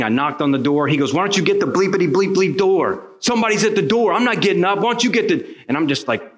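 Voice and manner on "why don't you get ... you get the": high, irritated mock yell with bleeped cussing; imitated yelling. Husband yelling at wife to answer the door, mock-angry holler. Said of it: "There was yelling. There was cussing".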